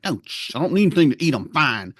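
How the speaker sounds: fast, high insistent denial; mock hangry kid protesting; stubborn refusal.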